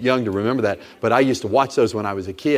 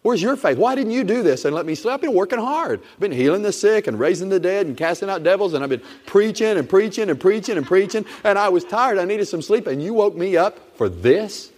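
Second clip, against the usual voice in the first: Jesus, annoyed at being woken; 8 semitones higher than usual. Acted. Preacher voicing Jesus woken up.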